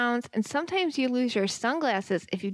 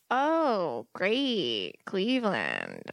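flat, dull "oh great"; unenthusiastic; 3 semitones lower, much slower than usual. Acted. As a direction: sound totally unimpressed. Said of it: "you have to be a little more enthusiastic".

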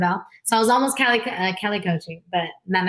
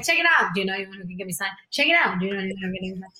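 put-on eager teen pitch; much faster than usual.

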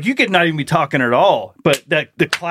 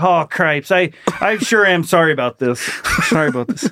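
lightly sketched Minnesota husband; polite, understated Minnesota apology; apologetic Minnesota accent. Acted. Reluctant husband pounding away, mildly apologetic Minnesota accent. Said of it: "he's having to just pound away".

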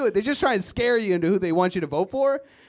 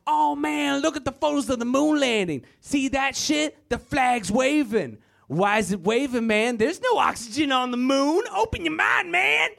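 higher stoner conspiracy voice, rising to a high squeak; conspiracy theorist; 6 semitones higher than usual. Retold or imitated. Comic imitating a moon-landing conspiracy theorist, voice climbing very high. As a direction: preach the moon hoax, climbing higher to the end. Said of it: "they're like".

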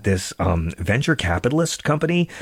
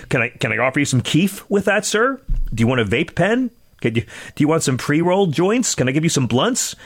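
pushy shop clerk; 5 semitones higher than usual. Retold or imitated. Mimics pushy weed sellers.

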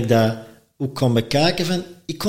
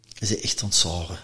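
blunt friend; 7 semitones lower, 8 dB quieter than usual. Retold or imitated. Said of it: "kon toch zeggen".

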